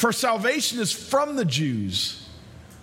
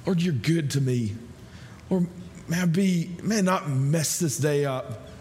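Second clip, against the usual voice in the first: morning prayer; 4 semitones lower than usual. Retold or imitated. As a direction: pray it gently, like just waking. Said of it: "and you say".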